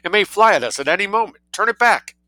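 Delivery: high-pitched panicked demand; alarmed, shrieking command; shrill scream. A narrator's reading. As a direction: order it urgently, voice pitched far up. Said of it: "she screamed shrilly to her nephew".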